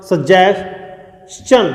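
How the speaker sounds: सजेशन drawn out very slowly, sə-JES-chən; slow model word. Shown as a demonstration. Teacher breaking the word down, very slow. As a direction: stretch सजेशन syllable by syllable. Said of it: "देखिए कैसे".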